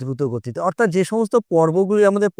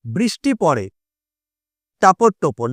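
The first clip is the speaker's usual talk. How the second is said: halting recital; slower than usual. Shown as a demonstration. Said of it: "মনে করো একটা কবিতা বলছি আমি".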